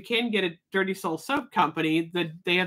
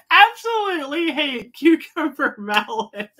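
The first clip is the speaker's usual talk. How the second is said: emphatic dislike; 7 semitones higher, 4 dB louder than usual. Real, not acted. Vlogger declares scent she hates.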